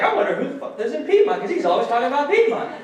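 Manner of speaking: teasing the audience with a quick mock thought. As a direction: play the nosy googler, rushed and amused. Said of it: "You're like".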